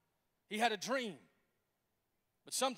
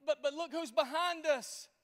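fearful people; 5 semitones higher, slower than usual. Acted. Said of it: "the children of Israel are like".

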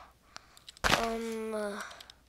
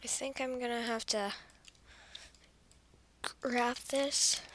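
whisper; 2 semitones lower, 12 dB quieter than usual. Real, not acted. Quietly grabs item.

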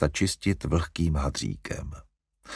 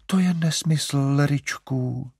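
higher, protesting mother; defensive; 7 semitones higher, slower than usual. A narrator's reading. Mother to Larry about the puppies, defensive. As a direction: brush off his complaint. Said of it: "bránila se maminka".

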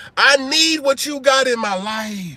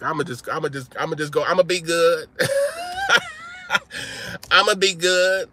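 sheepish David. Retold or imitated. David tamed by Abigail, meekly promising to behave. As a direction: mumble it like a tamed warrior. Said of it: "David was just like".

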